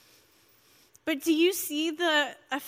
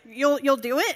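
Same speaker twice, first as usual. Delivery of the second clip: stammered, louder disbelief, rising on IT; surprised question; 5 dB louder than usual. Retold or imitated. Pastor hearing an unexpected yes, stammering surprised question. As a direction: imitate a pastor stumbling over his surprise. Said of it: "He was just as surprised as I was".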